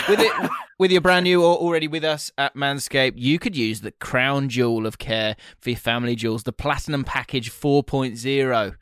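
playful sponsor read, lightly hammed. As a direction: read the ad copy with a grin. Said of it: "Now, let me read".

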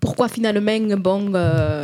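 tentative Marseille twang; half-hearted Marseille accent; attempted Marseille accent. Shown as a demonstration. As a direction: try out Marseille, losing confidence. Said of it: "que ça fait l'accent de Marseille".

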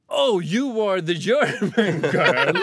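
slow, loud exclamation with a laugh; slow, laughing outburst; blurting it out. Retold or imitated. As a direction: burst out with it, half laughing. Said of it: "Så jag bara utbrister".

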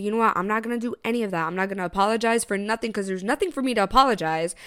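quick, rattled-off refusal; retold firm refusal. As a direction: reel it off fast, refusing to budge. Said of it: "And I was like".

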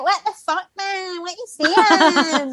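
imitating a stunned Scottish cast member snapping back; mock outraged Scottish retort. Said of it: "so we're like".

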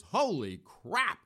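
slow, drawn-out mock astonishment; retold amazement. Reacting to the arson verdict, slow mock astonishment. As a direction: stretch out the surprise. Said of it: "my first reaction to this was".

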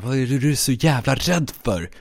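menacing hiss; tense, hissed demand. Acted. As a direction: hiss it at someone pinned down. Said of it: "och så väser jag".

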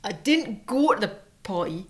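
put-on northern English accent, lightly done; lightly put-on regional British accent. Wife acts out Dominic Cummings dodging a party, put-on northern accent. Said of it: "Dominic Cummings".

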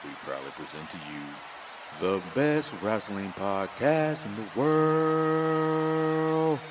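booming ringmaster intro. Pretend. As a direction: announce it like a circus ringmaster. Podcast intro announcement.

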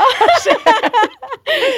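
high, loud, emotional burst of laughter; teary laugh. Real, not acted. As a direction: laugh through tears of joy. Friend moved to tears. (rørt latter gjennom tårer)

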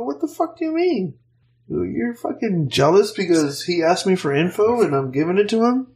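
a coworker's jealous jab, answered with a flaring indignant snap; retold angry retort. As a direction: jump up in pitch like you're telling him off again.

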